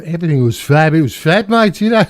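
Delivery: a light, hammed-up Liverpudlian accent; bad Liverpudlian accent. Recalling sixties slang in a bad Liverpudlian accent. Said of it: "the worst Liverpudlian kind of accent".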